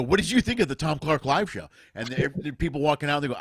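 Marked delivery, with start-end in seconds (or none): 0.0-1.7 put-on old live-show ad. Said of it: "old advertisers for a live show when they go".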